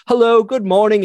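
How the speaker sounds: high-pitched mock-Australian hello; imitated Australian greeting. Australian coworker greets people in the morning, imitated Australian accent. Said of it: "Jeremy would be like".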